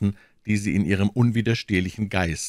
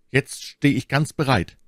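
higher, mildly enthusiastic pledge; 7 semitones higher, 4 dB louder than usual. A narrator's reading. D'Artagnan pledges himself to Milady, mildly enthusiastic. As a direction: offer yourself with a touch of eagerness. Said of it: "rief D'Artagnan voll unwillkürlicher Begeisterung".

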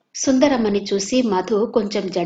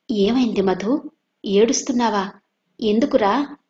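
anxious. Acted. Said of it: "అన్నాడు ఆతృతగా".

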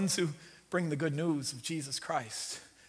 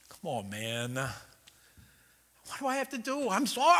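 mild mock frustration; 2 semitones higher, slower than usual. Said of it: "Peter gets mad".

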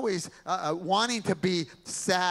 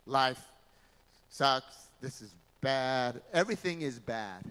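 gloomy pessimist; 4 semitones lower than usual. Acted. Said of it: "a pessimist is someone that says".

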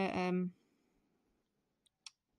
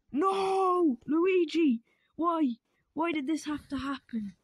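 high, loud overblown wail; hammed-up grief; 7 semitones higher, 6 dB louder, slower than usual. Mario wailing in hammed-up grief over Luigi. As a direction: cry out to the heavens in mock despair. Mario grieves brother's collapse.

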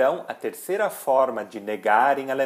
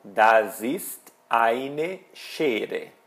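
very slow, word-by-word German; deliberate teacher's example, falling at the end; model sentence; much slower than usual. Shown as a demonstration. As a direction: draw out "eine" for the learner. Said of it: "o die fica eine".

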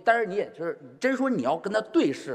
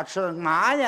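Beijing accent; 3 semitones higher, slower than usual. Shown as a demonstration. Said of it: "他说话就吃字儿".

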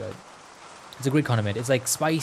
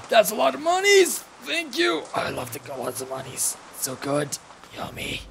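delight in the cash in a silly voice; money-loving figure, gleeful; 10 semitones higher than usual. Acted. Player voicing someone who loves monies, gleeful put-on voice.

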